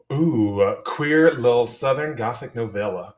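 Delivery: lightly put-on Southern accent. Real, not acted. Streamer reading a chat message aloud, light Southern accent. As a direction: read it out with a hint of Southern accent. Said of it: "my Southern accent".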